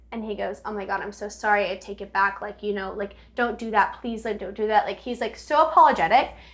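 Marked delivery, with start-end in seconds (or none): 0.6-4.8 bawling, tearful, crying delivery. Retelling how he apologized after he started bawling: imitating someone bawling. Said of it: "starts bawling".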